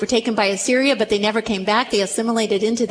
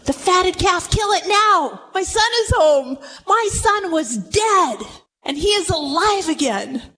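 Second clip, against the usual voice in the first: raised, emphatic voice of a rejoicing father; exultant father; 6 semitones higher than usual. Acted. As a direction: proclaim it as an overjoyed father, higher pitched. Father rejoicing over returned son.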